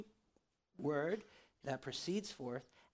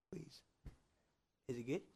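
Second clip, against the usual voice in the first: soft whispered plea; whispered please; 5 dB quieter than usual. Real, not acted. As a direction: whisper it to the booth. Aside to tech crew.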